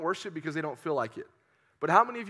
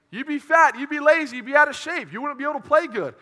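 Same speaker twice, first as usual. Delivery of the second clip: higher and louder warnings; loud emphatic list; 8 semitones higher, 6 dB louder than usual. Acted. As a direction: hammer each consequence. Listing consequences loudly.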